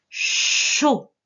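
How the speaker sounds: CHAUD with a long, loud hushing CH; dictation sound. Shown as a demonstration. Teacher dictating the second syllable, exaggerated sounds. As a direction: lean hard on the CH of CHAUD. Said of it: "c'est la syllabe".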